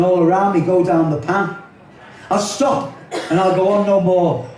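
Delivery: rhythmic rhyming poem delivery; poem recital. Acted. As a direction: recite it to the audience with a wry tone.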